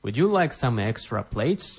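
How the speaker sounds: slow, careful model reading; slow repetition. Shown as a demonstration. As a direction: spell it out slowly for learners. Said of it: "teacher repeats phrase for learners".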